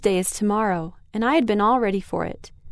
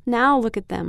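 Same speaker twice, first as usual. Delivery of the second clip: mock sob; 2 semitones higher than usual. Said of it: "I sobbed".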